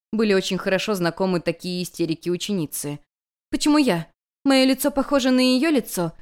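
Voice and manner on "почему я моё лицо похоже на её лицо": higher, stamping indignant cry; indignant exclamation. Acted. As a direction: burst out in wounded disbelief. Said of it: "воскликнула наследница".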